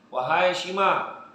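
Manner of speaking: a slow summoning call; calling angel. Acted. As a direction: call her name slowly from above. Angel calling a sick person.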